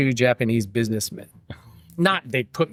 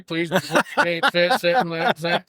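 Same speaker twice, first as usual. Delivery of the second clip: hurried attendant; 6 semitones higher, much slower than usual. Retold or imitated. Flight attendant hurrying him to seat.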